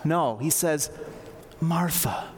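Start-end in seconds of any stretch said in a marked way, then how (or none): 1.6-2.3 gentle, lingering name called twice; a touch of loving reassurance; tender. Retold or imitated. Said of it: "he speaks tenderly to her".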